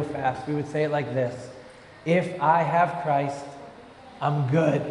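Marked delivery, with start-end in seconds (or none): 2.0-4.8 Boston accent. Shown as a demonstration. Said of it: "phrase this in Bostonian".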